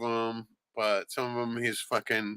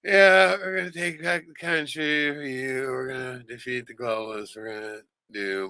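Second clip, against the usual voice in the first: mock bored speech; 3 semitones higher than usual. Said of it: "It almost sounds bored".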